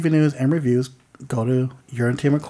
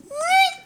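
imitated dodge noise. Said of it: "and I just kinda went".

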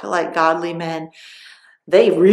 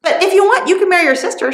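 a lightly voiced dad, higher and louder, hurrying his excuses; apologetic father; 9 semitones higher, 6 dB louder, faster than usual. Bride's father excusing himself to Samson, higher, louder, hurried. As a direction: play the sheepish father-in-law offering a swap. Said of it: "And her dad said".

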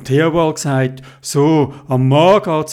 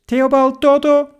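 higher, louder call from the kitchen; mother calling; 10 semitones higher, 4 dB louder than usual. Acted. Mama calls the boys in for cake, higher and louder. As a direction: call the kids in from afar.

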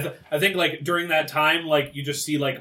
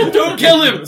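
high, loud mocking imitation; mocking high quote; 11 semitones higher, 10 dB louder than usual. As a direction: mimic the plea, squeaky and loud. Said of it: "says the guy who".

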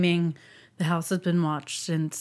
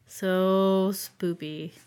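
whispering; much slower than usual. Real, not acted. Reacting to creepy letter.

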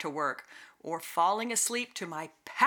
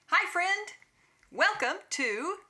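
booming sing song welcome; 10 semitones higher than usual. Acted. Host greets listener in character.

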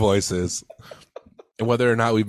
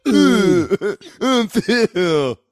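true voice; 11 semitones higher, 6 dB louder than usual. Shown as a demonstration. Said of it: "talk in our true voices".

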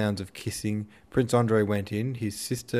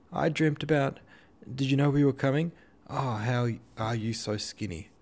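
high, breathless gushing; gushing excitement; 5 semitones higher than usual. A narrator's reading. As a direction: fuss over your sister-in-law. Lisa gushing at reunion.

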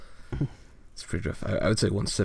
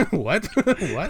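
baffled; 8 semitones higher than usual. Real, not acted. Baffled by joke.

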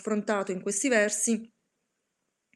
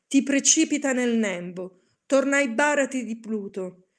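distraught shouting; 4 dB louder than usual. Acted. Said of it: "urlai sperduto".

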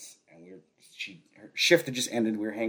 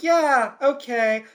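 dismissive brush-off; 10 semitones higher, 6 dB louder, slower than usual. Retold or imitated. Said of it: "she was just like".

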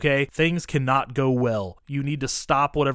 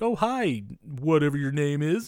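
mock sweet greeting; 3 semitones higher than usual. Friends retelling the movie, mocking a chirpy greeting. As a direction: sing it out like a polite brush-off. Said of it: "They do the thing like".

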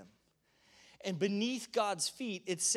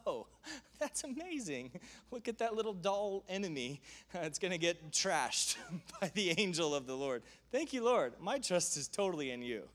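chuckling, carefree mock; amused, lightly voiced trust; laughing delight. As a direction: laugh at the tiny enemy. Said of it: "He says".

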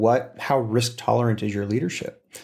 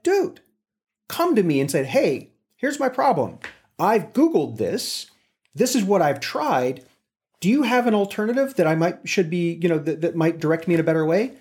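higher, bright eager asking, lightly voiced; eager employee voice; 6 semitones higher than usual. A boss voicing a keen new hire asking for help, lightly.

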